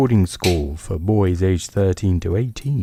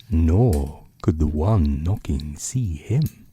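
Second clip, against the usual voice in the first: hushed, unhurried bedtime reading; story narration. A narrator's reading. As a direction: read it like a book by the bedside.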